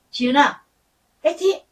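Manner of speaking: high bright cheer of fighting. Retold or imitated. Mother cheering daughter Jieun at the elevator, a light mock cheer. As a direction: cheer her on as she leaves.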